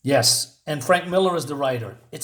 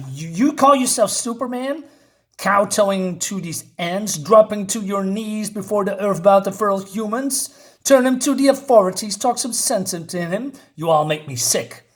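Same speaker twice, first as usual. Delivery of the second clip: scolding acted tirade, raised pitch at first; acted contempt, pushing up then dropping at the end; angry Wonder Woman; 3 semitones higher than usual. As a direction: berate them with mock-angry disgust. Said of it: "she's basically angry".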